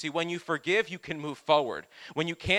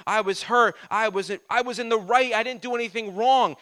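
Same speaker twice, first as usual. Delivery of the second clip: self-pitying protest; 4 semitones higher, 5 dB louder than usual. Retold or imitated. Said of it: "could have been really easy for him to think".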